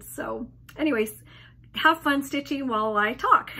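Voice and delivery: hoarse voice from laryngitis; tired, worn-out hoarse voice; post-op weakness. Real, not acted. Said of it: "I apologize for the voice".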